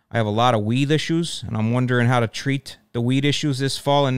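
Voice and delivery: put-on reading a viewer letter in Chicago accent. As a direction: read it like a South Side Chicagoan. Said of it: "I'll read this one in the Chicago accent".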